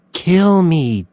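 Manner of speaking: taunting challenge; goading taunt. A narrator's reading. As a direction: dare him to do it. Doe goads Mills.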